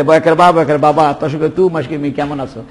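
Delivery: mumbled letter-by-letter spelling of "বাবা". Shown as a demonstration. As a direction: murmur each letter name before the word, like "বয়াকার বা". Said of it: "আর কলম দিয়ে লিখতেছে".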